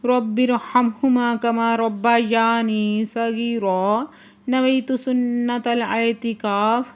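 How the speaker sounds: slow, measured Arabic du'a recitation; slow recited prayer. Acted. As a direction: intone each prayer slowly and devoutly. Opening duas recited slowly.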